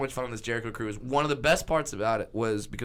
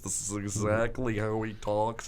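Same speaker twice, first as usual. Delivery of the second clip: Barry Katz; 4 semitones lower than usual. Shown as a demonstration. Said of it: "is a perfect impression".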